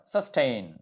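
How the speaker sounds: సస్టైన్ with the weight from the t onward; stress before T. Shown as a demonstration. Teacher demonstrating the root word, stress on second syllable of సస్టైన్. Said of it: "టీకి ముందు పెట్టాం".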